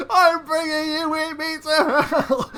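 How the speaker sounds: high, loud, slow defiant cry half laughing; laughing through a villain's death cry; dying villain's cry. Acted. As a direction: scream your last threat at them. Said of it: "He goes".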